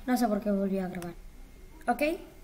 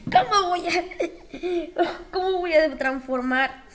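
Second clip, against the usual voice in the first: laughing disbelief; 6 semitones higher, 5 dB louder than usual. Real, not acted. Absurd result makes her laugh.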